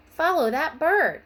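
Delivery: loud, high eager command; rally the class to follow; calling out with high excitement; excited. A narrator's reading. Teacher eagerly leads the class.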